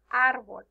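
árbol with the weight on ár; árbol, accented on its opening A; stress on the A. Shown as a demonstration. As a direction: lean on the first syllable of árbol. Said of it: "la pronuncias más fuerte cuando dices".

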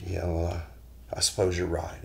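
sheepish admission. Retold or imitated. Husband bowed his head down.

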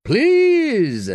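high, loud frightened plea; desperate plea. A narrator's reading. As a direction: cry out begging him to stop. Priest pleads as knife drawn.

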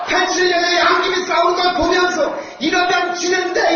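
shouted rally line; roaring rallying speech. Real, not acted. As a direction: call it out to the crowd. Repeated rhetorical phrase, shouted.

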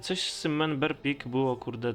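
ordinary delivery

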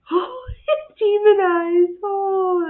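high, loud, slow laughing; loud laughing mock scare; laughing mock fright. Real, not acted. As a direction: laugh at the spooky eyes. Husky with scary eyes.

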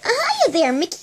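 very high cartoon mouse squeak; Minnie Mouse. Friends calling to Mickey, squeaky mouse voice. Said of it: "Now we're gonna do Minnie Mouse".

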